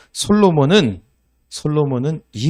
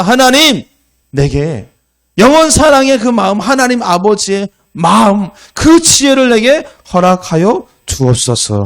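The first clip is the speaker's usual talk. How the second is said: fervent prayer; 7 semitones higher, 8 dB louder than usual. Retold or imitated. Solomon's prayer voiced.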